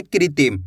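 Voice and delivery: कृत्रिम with the first syllable said "kri"; "kri" pronunciation. Shown as a demonstration. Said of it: "क्री करके उच्चारण निकालेंगे".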